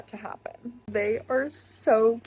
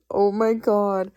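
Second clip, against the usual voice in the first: dramatic gasp; 6 dB louder, slower than usual. Real, not acted. Remembering the last competition.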